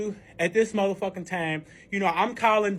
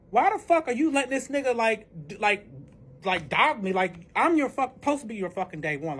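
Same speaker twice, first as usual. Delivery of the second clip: retold angry confrontation, slightly raised pitch; pissed off; 3 semitones higher than usual. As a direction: demand an answer, mildly heated. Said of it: "pissed the fuck off 'cause I'm like".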